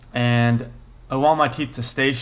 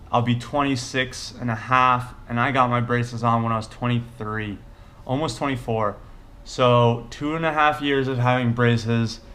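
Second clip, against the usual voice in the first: talking with sore teeth; 2 semitones lower than usual. Real, not acted. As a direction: mouth held half open, barely moving. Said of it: "I'm talking weird now because I'm scared to close my mouth".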